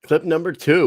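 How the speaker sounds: high, loud announcer call; announcing the clip. Real, not acted. Host announcing the next clip, high and loud.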